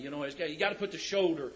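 ordinary talk, nothing marked

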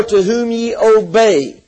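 "obey" held firmly at the end; stress on obey. Real, not acted. Preacher pressing the word on listeners, stress on "obey". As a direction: land deliberately on "obey" to close. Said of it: "I stress that word".

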